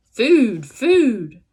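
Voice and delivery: put-on a touch of a hungry baby bird; hungry gosling. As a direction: newborn gosling begging for food. Gosling demanding food.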